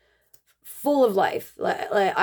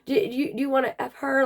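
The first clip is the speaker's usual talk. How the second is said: retold yell; 6 semitones higher than usual. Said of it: "he's yelling at him".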